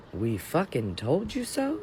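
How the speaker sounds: smug, singsong I-told-you-so; condescendingly smug. Real, not acted. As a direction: gloat with exaggerated swoops of pitch. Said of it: "being condescendingly smug".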